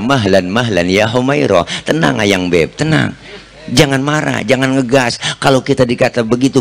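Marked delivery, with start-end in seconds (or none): 0.0-5.2 calm soothing. Retold or imitated. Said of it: "Nabi pegang tangan Siti Aisyah".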